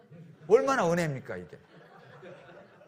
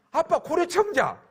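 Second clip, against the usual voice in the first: put-on higher, slow childish wail; hammed-up tearful child; whiny crying son; 9 semitones higher, 3 dB louder than usual. Son wailing to father about the broken vase, mock crying.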